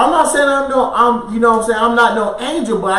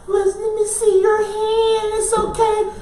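higher, softer soothing voice; gentle comforting wife; 11 semitones higher, 5 dB quieter than usual. Retold or imitated. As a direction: coax him tenderly like a caring wife.

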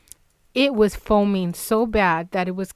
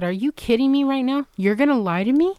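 retold outrage, pitched up at the start; indignant telling-off; 5 semitones higher than usual. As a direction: act out cussing him out, incredulous. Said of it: "and I cussed him out".

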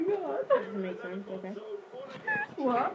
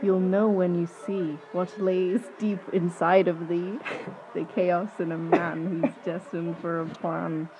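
monotone dark poem; 2 semitones lower than usual. Acted. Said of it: "said in such a monotone but dark, deep way".

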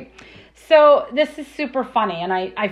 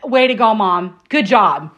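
sarcastic son; 5 semitones lower, slower than usual. Retold or imitated. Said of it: "this is his famous thing".

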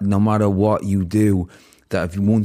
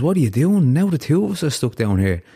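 alarmed disbelief; 7 semitones higher than usual. Retold or imitated. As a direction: blurt it out in shock at him. Man in hole, alarmed at jumper.

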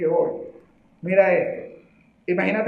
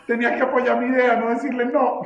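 laughing mock scold; 5 semitones higher than usual.

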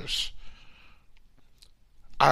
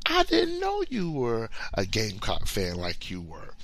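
normal talking voice

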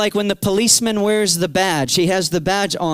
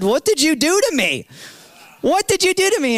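higher, climbing panic in the repeat; teen voice climbing higher in alarm; alarmed question; 9 semitones higher than usual. Retold or imitated. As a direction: blurt it out, frightened and confused. Retold alarm after falling.

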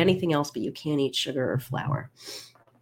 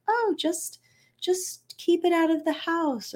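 high, sing-song mock advice. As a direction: parody the glib advice giver. Mocking advice clients were given.

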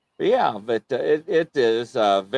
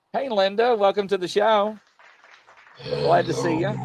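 mock Viking greeting; 8 semitones higher than usual. Host imitates a UK guest who sounds like a Viking, light mock Viking voice. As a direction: greet her like a hammy Norse warrior, lightly. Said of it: "She sounds like a Viking".

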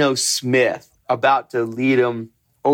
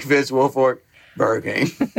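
grumbled mumble. Retold or imitated. Lightly mimicking Vince Wilfork's grumbled intro. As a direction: mumble the name and school like a huge lineman. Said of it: "so grumbled".

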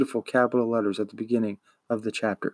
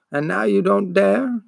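grumbled; 8 semitones higher than usual. A narrator's reading.

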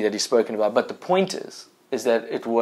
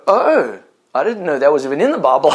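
delighted surprise; 2 semitones higher, 5 dB louder than usual. Retold or imitated. Preacher reenacts finding God's word in the Bible, delighted surprise. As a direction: relive the joy of finding it there, laughing. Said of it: "And I'd go".

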